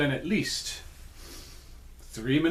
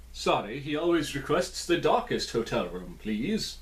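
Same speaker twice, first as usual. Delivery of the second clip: put-on Transylvanian accent. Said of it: "my Transylvanian accent".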